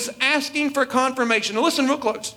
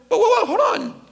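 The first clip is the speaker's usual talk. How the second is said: high, laughing whoa, hold on; laughing interruption; 8 semitones higher than usual. Real, not acted. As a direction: break in with a laugh. Preacher cuts into his own retelling.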